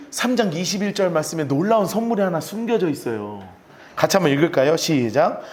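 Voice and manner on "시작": ordinary talk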